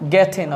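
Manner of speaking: "getting" said as "get-in"; silent final G. Shown as a demonstration. Teacher showing learners "getting", G dropped. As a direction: end "getting" on a plain n, no g. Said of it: "জিটা silent".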